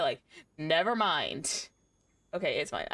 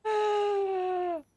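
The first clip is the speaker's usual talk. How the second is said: much higher, cooing pet voice; slower than usual. Real, not acted. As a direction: soothe the frightened cat in a squeaky coo. Soothing startled cat, high voice.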